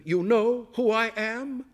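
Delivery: high, loud accusing question; suspicious alarm. A narrator's reading. Guest backing away from the chef, high alarmed accusation.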